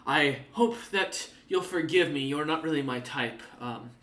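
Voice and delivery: lightly voiced flirty woman; a light smile in the voice; smiling NPC. Woman teasing the charming rogue, lightly smiling. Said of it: "She smiles and goes".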